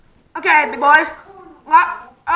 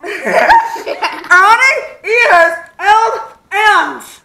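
mouth guard speech; 4 semitones higher, much slower than usual. Real, not acted.

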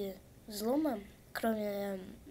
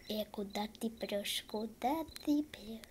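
russian street thug. Pretend. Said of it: "я как гопник".

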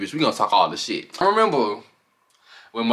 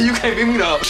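mock taunt; 10 semitones higher, 3 dB louder than usual. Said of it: "Debbie said".

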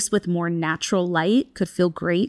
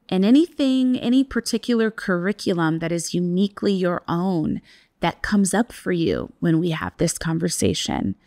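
guided meditation. Acted. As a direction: ease listeners into stillness. Leads a breathwork practice.

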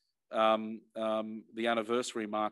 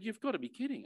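much higher, exasperated disbelief; incredulous outburst; 10 semitones higher, 4 dB quieter than usual. Retold or imitated. Retelling his reply to a mate hiding his counselling, incredulous. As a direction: throw up your hands, you can't be serious.

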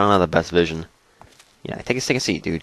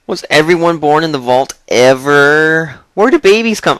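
put-on naive kid voice; 4 semitones higher than usual. Player voices naive child question.

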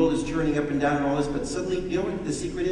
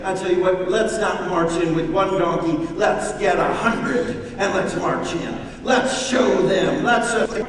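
mock aggressive; 6 semitones higher, 9 dB louder than usual. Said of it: "very aggressive and say".

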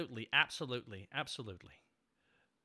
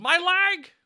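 higher and louder mock cry of pain; retold scream; 12 semitones higher, 10 dB louder than usual. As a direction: yelp it like a hurt cartoon character. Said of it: "Someone screamed".

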